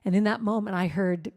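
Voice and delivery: ordinary talk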